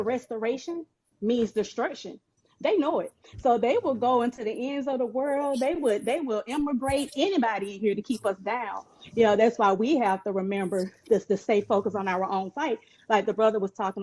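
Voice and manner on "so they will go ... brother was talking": winded from the treadmill; talking out of breath while jogging. Real, not acted. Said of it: "I'm sorry, I'm on the treadmill".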